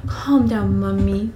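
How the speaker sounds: exaggerated cooing reassurance; put-on babyish soothing; mock soothing. Reader hamming up Bella soothing mother, cooing. Joking retake of most soothing voice.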